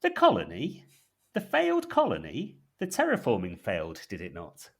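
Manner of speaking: over-the-top curious villain; a hammed-up peak of intrigue; very intrigued operative. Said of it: "leans so far ... falls off".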